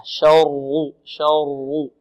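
شر with a heavy, dark rolled R; heavy R demo. Shown as a demonstration. Teacher showing students the heavy R in شر, thick and emphatic. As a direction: say شر with the R thick and full. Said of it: "والراء مفخمة".

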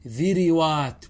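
ذروات as "dhiriwaat", short i after both ذ and ر; drawn-out ذروات, "dhi-ri-waat"; kasra on both. Shown as a demonstration. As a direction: say ذروات with the ر copying the i of ذ. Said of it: "بكسر الفاء والعين".

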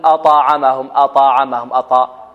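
أطعمهم with an "a" vowel slipped after the ط; bounce tilted to fatha. Shown as a demonstration. Teacher shows what to avoid, bounce tilted to fatha. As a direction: wrongly open the ط of أطعمهم into "ta". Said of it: "نميلها الفتح".

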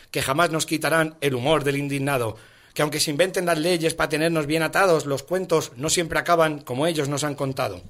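rhythmic recital of satirical verse; poem recitation. Acted. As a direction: recite rhymed verse line by line.

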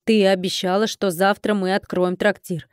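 ordinary delivery

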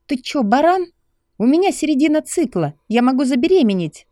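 high, loud angry female voice; a girlfriend yelling at him in outrage; furious young woman. Acted. Narrator voices angry Lucy.

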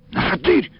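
ordinary delivery, nothing marked

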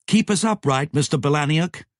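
firm order. A narrator's reading. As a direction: give the order like a captain. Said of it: "Maggie ordered".

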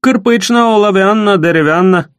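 high, sneering sing-song mimicry; mock the boy in a nasty sing-song; nasty mocking singsong. Сиплый mocking the boy's street name, sing-song and high. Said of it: "передразнивая противным голосом, пропел Сиплый".

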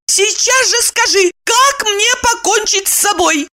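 high, hard insistence; harsh demand. A narrator's reading. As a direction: press the question harshly. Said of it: "жёстко повторила вопрос".

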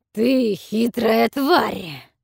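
loud, slow roared order; roaring dragon. A narrator's reading. Dragon roars at the kneeling captives, loud roar. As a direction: roar it like a beast. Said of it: "проревел всё заглушающий голос".

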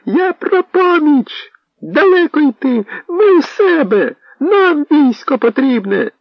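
high, slow straining yell over a crowd; shouting with all his might. Acted. Posadnyk tries to outshout the rumbling veche, desperate shouting. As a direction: shout to be heard over the din. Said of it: "з усіх сил вигукував".

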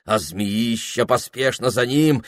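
ordinary delivery, nothing marked

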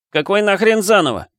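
angry outburst. A narrator's reading. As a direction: yell it at the screen in rage. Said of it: "вырвался гневный возглас".

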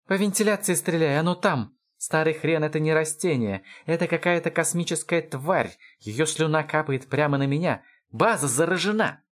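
high, strained alarm held throughout; panicked yelling. A narrator's reading. Lound warning of the creature above, panicked yelling. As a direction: cry it out urgently, pitched well up.

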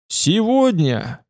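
hint of a mighty orator, word stretched slowly; powerful oratory. A narrator's reading. Politician addressing a rally, powerful and drawn out. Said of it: "услышал я его мощный голос".

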